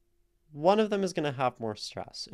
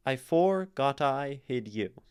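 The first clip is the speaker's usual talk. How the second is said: "I forgot I hid you" with "for" hit hard; forced iambic stress; 3 semitones higher, 4 dB louder than usual. Shown as a demonstration. Teacher testing whether a poem line is iambic, forced meter. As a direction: force the weak-STRONG beat so "forgot" leans on "for". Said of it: "we can try to say it that way".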